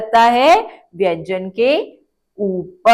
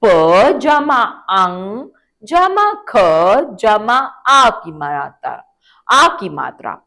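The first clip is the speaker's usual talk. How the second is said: slow and deliberate, each sound separated; slow spelling out; 2 semitones higher than usual. Shown as a demonstration. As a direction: spell it out piece by piece for children. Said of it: "तो आओ इसका उच्चारण करें".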